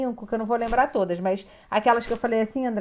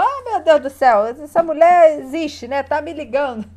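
louder, dragged-out sigh of a fed-up client; mock exasperation; 4 semitones higher, 6 dB louder than usual. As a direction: play the annoyed client, half joking. (cliente impaciente imitada, exclamação arrastada e mais alta)

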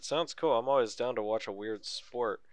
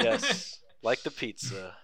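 laughing along; 3 semitones higher, slower than usual. Retold or imitated. Man telling how he answers strangers about his name, laughing. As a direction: give in with a laugh. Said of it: "And I'm just like".

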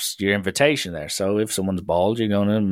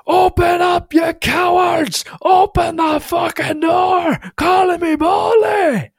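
high, loud, drawn-out bellow; re-enacted furious man, stretching his words; enraged shout; 5 dB louder, slower than usual. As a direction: roar it through a shut door. Angry bald man banging at door.

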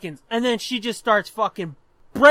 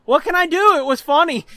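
higher, louder shrugging reply; imitating a mom who finds it funny; amused helpless mom; 6 semitones higher, 5 dB louder than usual. Mom to protesting brother, amused and helpless. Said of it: "laughing her ass off".

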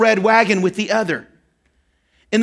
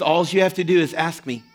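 soft, tender father; 3 semitones lower, 3 dB quieter than usual. Retold or imitated. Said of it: "he says".

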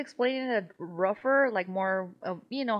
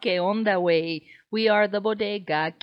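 hyped intro; 7 dB louder than usual. Acted. Podcast intro greeting.

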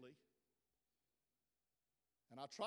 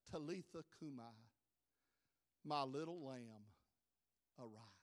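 hushed, much softer and lower; gentle whisper; 8 semitones lower, 5 dB quieter than usual. Retold or imitated. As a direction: whisper tenderly to a sleeping child. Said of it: "Jesus whispers to that little girl".

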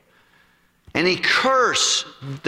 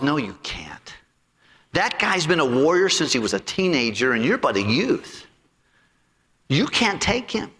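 king refusing; 4 semitones lower than usual. Acted. King Saul refusing David.

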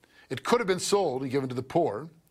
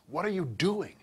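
higher, disdainful, slowing down; mock scornful snort; 5 semitones higher than usual. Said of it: "That's the tone of what's going on here".

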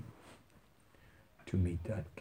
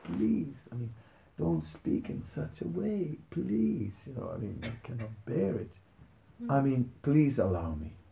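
pleading Hanuman; 3 semitones higher than usual. Retold or imitated. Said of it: "Hanuman is just saying".

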